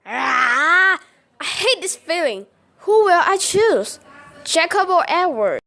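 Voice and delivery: anguished outburst, the voice climbing; frustrated cry. Acted. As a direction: cry out torn between the two of them. Bella torn between two boys.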